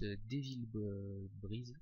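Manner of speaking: English name in a French accent; halting French-accented English. Real, not acted. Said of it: "excusez-moi de mon accent anglais".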